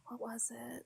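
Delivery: soft whispered question; whispering. Real, not acted. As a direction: breathe it as a whisper. Whispered question after a sigh.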